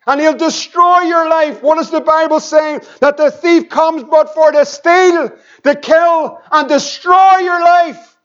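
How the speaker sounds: rising, urgent pulpit warning; forceful preaching. Acted.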